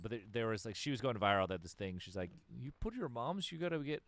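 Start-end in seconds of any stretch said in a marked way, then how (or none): 2.5-4.0 put-on Toronto accent. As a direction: imitate the girl's terrible Toronto accent. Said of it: "the worst accent you've ever heard".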